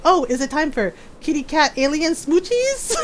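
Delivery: imitating a friend's eager cutesy question; gleeful teasing. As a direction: rise playfully toward the end. Mimicking mod's gleeful teasing.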